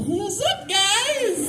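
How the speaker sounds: high, small squeak of hello; a small high nervous hello; tiny nervous greeting. Retold or imitated. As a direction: squeak it out timidly. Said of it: "let out this little".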